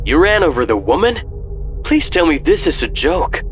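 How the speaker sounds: high, fast disbelieving friend; stunned friend, rushing; shocked. Acted. Mark shocked on the radio.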